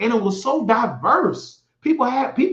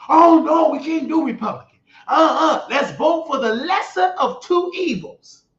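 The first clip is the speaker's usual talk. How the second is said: grandma's protest; 5 semitones higher than usual. Retold or imitated. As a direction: plead like a shocked grandmother, rising to near tears. Grandma answers his Republican suggestion.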